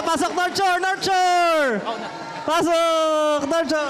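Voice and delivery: high excited cheer; cheering call. Real, not acted. Cheering team onto stage.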